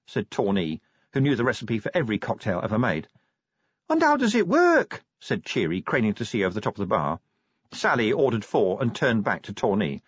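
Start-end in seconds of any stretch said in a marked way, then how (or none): 3.9-5.0 much higher, eager little question; curious dwarf. Acted. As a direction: ask it wide-eyed. Cheery asks about cocktail.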